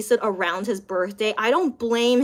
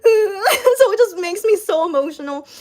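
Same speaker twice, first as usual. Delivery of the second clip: laughing through tears; 8 semitones higher, 6 dB louder than usual. Real, not acted. Gushing about singer, laughing and crying.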